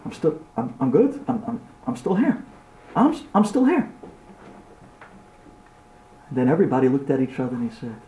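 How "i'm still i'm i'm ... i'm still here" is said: shaken survivor. Acted. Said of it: "when you walk out of an accident".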